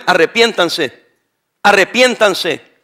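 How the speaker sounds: "arrepiéntanse" drawn out very slowly, falling at the end; slow, weighty "arrepiéntanse, arrepiéntanse"; slow solemn plea. Acted. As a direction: lean into each "arrepiéntanse" like a grave warning. Preacher urging repentance.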